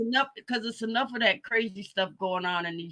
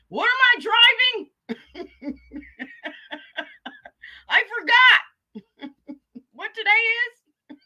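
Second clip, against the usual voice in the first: put-on old man voice; 10 semitones higher, 5 dB louder than usual. Imitating confused old pimp.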